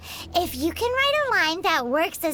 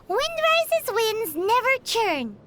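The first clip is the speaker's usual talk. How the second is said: recited couplet line; 2 semitones higher, slower than usual. Shown as a demonstration. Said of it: "Care to give an example?".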